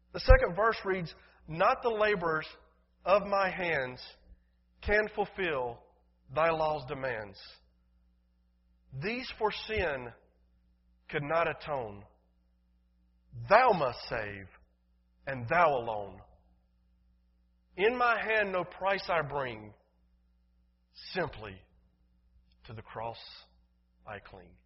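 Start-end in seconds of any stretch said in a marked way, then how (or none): 1.5-19.7 slow, weighty pulpit recitation; ringing, measured hymn reading; hymn verse recitation. Acted. 21.1-24.6 fading recitation with pauses between phrases; hushed hymn ending. Acted. Hushed close of hymn verse.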